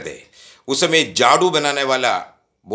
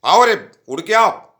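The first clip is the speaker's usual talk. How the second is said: retold call, louder and higher; father's shout; 7 semitones higher, 5 dB louder than usual. Father shouting at the kids to hurry. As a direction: bellow for the kids to come running. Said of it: "पापा चिल्लाते".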